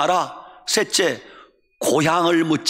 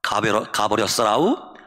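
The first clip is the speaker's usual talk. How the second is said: low-pitched Jeolla accent; Jeolla dialect; 7 semitones lower than usual. Shown as a demonstration. Preacher compares death notices, in Jeolla dialect. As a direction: say it like a Jeolla local. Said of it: "전라도 말".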